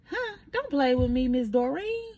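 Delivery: high startled retort; excited disbelief. Retold or imitated. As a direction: react like it's too good to be true. Retold disbelieving reply to caller.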